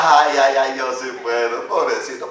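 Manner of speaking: lightly voiced smug young player; a touch of mocking vanity; conceited musician. Pastor warns youth musicians, mimicking conceit lightly. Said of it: "nunca vaya a pensar".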